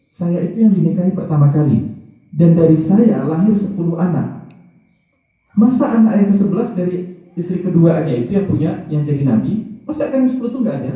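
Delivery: imitating a wife's resentful protest; indignant first wife. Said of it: "Dia mulai tidak terima".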